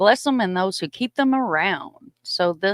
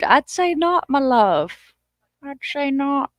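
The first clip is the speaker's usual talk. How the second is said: higher, sing-song teasing; playful reply; 7 semitones higher, slower than usual. Real, not acted. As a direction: tease the viewer gently. Teasing answer to comment.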